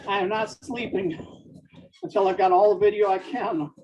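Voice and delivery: usual speaking voice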